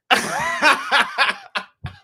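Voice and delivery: sudden high burst of laughter; big high laugh. Real, not acted. Host laughing at a chat comment, high bursting laugh. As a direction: crack up at the comment.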